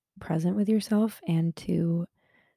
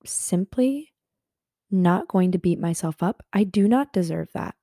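firm self-affirmation; 2 semitones higher, 4 dB louder than usual. Retold or imitated. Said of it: "It's okay to be like".

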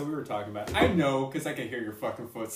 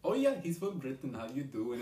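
imitating a cousin's Indian accent, pitched up; mock Hindi accent; 2 semitones higher than usual. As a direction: put on a lilting Indian English accent. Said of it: "you sound like my Hindi cousin".

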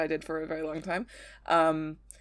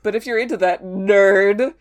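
loud, laughing wrestling heel taunt; trash-talk the audience like a heel; heel promo; 10 dB louder than usual. Acted. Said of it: "like, a heel promo".

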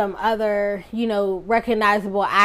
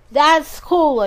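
mock impressed listener; 5 semitones higher, 4 dB louder than usual. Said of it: "you say".

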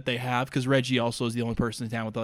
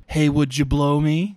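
loud, punchy joke payoff; punchline delivery; 6 dB louder than usual. Acted. Telling the prank punchline, loud. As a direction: land the gag name hard.

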